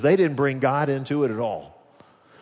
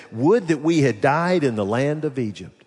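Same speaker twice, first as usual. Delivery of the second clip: mock exasperated whining; 4 semitones higher than usual. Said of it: "began to get exasperated and said".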